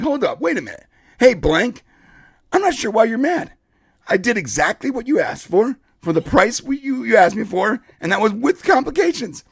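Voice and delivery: mildly indignant self-defence; retold indignation. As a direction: push back, a touch affronted. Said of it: "I started getting indignant".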